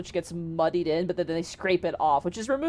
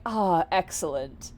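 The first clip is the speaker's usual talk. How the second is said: slow, pleased genie; understated, drawn-out satisfaction; mildly pleased. Acted. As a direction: savour it with slow approval. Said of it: "very pleased by your applause".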